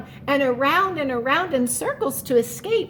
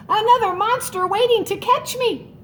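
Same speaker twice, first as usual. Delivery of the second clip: scared; 7 semitones higher than usual. Acted. Mouse terrified in garden.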